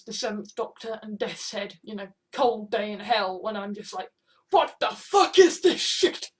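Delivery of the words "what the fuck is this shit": higher, louder mock outrage; acted disbelief. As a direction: blurt it out in exaggerated disbelief. Acted baffled reaction to a story.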